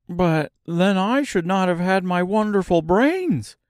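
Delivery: high, excited scarecrow voice; Scarecrow crying out. A narrator's reading. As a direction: exclaim it like a proud scarecrow. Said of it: "cried the Scarecrow".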